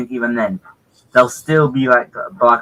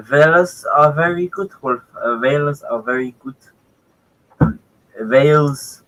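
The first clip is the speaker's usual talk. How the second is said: put-on Welsh accent; 3 semitones higher than usual. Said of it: "Try not to do an accent".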